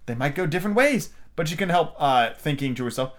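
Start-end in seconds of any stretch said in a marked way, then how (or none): 0.1-1.1 higher, earnest reply; grave as possible. A narrator's reading. Alice answering the Queen's argument, attempting gravity. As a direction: try to sound grave. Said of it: "Alice said as gravely as she could".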